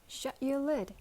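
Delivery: a fierce order to shut up. Acted. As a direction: snap it at her fiercely. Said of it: "said the Christmas pig fiercely".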